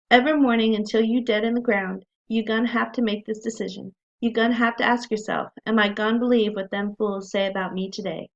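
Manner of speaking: lightly voiced Southern dialect; attempted Southern accent. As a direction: read it with a hint of a Southern accent. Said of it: "I can hardly carry off that accent".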